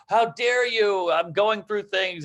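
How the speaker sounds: slow, offended "how dare you"; mock indignant. Mocking someone offended at being called out, slow indignation. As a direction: act wounded and outraged. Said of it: "They go".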